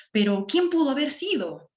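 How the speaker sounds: astonished exclaimed question; exclaiming question. Shown as a demonstration. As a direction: ask it in disbelief. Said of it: "Estoy exclamando y estoy interrogando".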